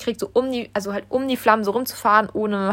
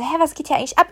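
higher-pitched, baffled quoted question; retold bewilderment; 6 semitones higher, faster than usual. Waking up confused to fireworks everywhere, retold bewilderment. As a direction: act out being caught off guard.

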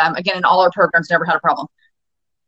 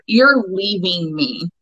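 slow intention; much slower than usual. Shown as a demonstration. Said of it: "giving that intention of".

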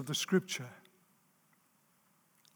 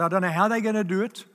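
raised, forceful preacher's delivery; emphatic preaching; 3 semitones higher, 6 dB louder than usual. Real, not acted. Preacher telling the congregation why they exist, emphatic. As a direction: drive the point home, leaning hard on key words.

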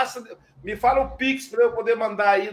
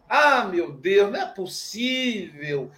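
slow, exasperated mock lament; complaining prayer; 3 dB louder, slower than usual. Praying while complaining, a slow exasperated mock lament. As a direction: whine it out like a spoiled plea. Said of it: "que eu falava assim".

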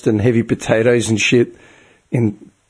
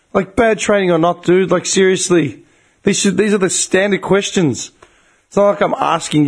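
high-pitched, indignant complaint; retold telling-off with voice raised in pitch; exasperated rant; 7 semitones higher than usual. Customer faulting call centre training, exasperated.

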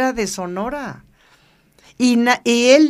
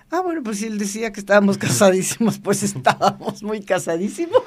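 laughing. Real, not acted. Joking about being married.

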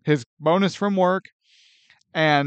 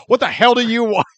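loud irritated snap; angry snap; 4 semitones higher, 6 dB louder, faster than usual. Retold or imitated. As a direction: answer the door furious. Retelling Clark's angry door answer.

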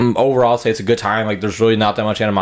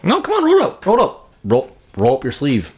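much higher, pleading roll it up; mock urging; 4 semitones higher than usual. Urging the girlfriend at the hospital, high mock pleading. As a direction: coax her like a nervous kid.

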